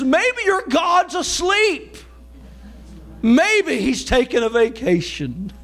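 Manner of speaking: slow, drawn-out mocking taunt; preacher voicing a sarcastic prophet's jibe. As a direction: taunt them slowly, from the pulpit. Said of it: "in a very sarcastic way".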